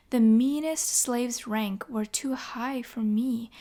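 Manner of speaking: slow, measured verse recital; storyteller reciting rhymed verse; poem reading. Acted. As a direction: read it like an old epic poem. Reads verse poem aloud.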